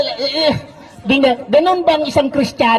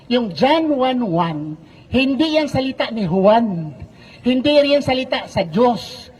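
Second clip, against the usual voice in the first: slow, deliberate; slower than usual. Real, not acted. Slowing to make the point.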